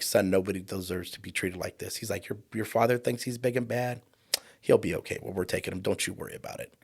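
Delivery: softly reassuring police officer; calm reassuring cop. Retold or imitated. Tall cop comforting boy.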